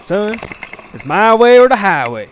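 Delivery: high, loud commanding spirit. Acted. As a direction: boom out an order from above. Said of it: "the A-Line spirit said".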